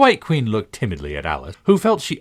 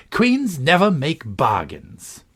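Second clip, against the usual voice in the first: stiff; 7 semitones higher, 4 dB louder, much slower than usual. A narrator's reading. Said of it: "drew herself up rather stiffly".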